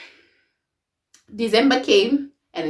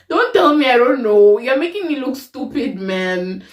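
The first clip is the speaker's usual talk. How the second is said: mock indignant; 3 semitones higher, 3 dB louder than usual. Mock indignation at his excuse.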